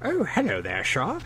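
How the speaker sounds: high, oily scammer voice; sleazy high fake politeness. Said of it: "bullshit emails that say".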